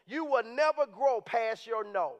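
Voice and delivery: slowed, weighing each word; slow emphatic. Shown as a demonstration. To the congregation, a slow emphatic point. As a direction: let the line land slowly. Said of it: "repeated key line slowly".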